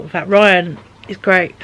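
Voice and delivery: mid-yawn while talking. Real, not acted. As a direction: talk through a yawn. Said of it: "Sorry, I keep yawning".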